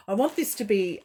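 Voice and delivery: laughing through tears; a laugh breaks the restart; tearful giggle on the words. Real, not acted. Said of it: "laughs through it".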